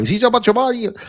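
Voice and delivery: Xi Jinping said high and slow in a mock accent; hammed-up, high, slowed reading of Xi Jinping; mispronounced name. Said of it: "Why would you do that?".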